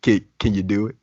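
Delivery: light, laughing mock of a pushy backstage writer; mock eager writer. Host imagines a white writer coaxing the wrestler, in a laughing mock coaxing voice. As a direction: egg him on like a clueless writer. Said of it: "one of the white writers backstage and being like".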